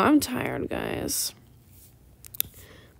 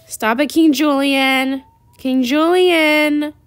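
scolding; 3 semitones higher, 5 dB louder, slower than usual. Real, not acted. Scolding her annoying pet.

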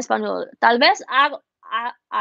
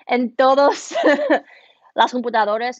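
laughing while repeating "En todos las computadoras"; laughing through words; 6 dB louder than usual. Real, not acted. Amused streamer repeats her phrase, laughing.

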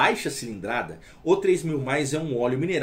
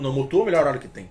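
fast, insistent, a bit louder; imitating a stubborn customer's insistence; know-it-all customer; 5 dB louder, much faster than usual. Seller mimics a customer who never used it, insistent. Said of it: "a pessoa nem usou o Motul".

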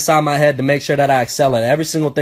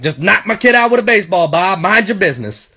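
dismissive dad; 3 semitones higher than usual. Retold or imitated. Dad brushing off a nosy neighbor.

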